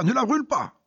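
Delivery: high, urgent cry to stop him. Acted. Wally stops Conley burning the Bible, urgent cry. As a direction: shout to save the book. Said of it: "Wally s'écria".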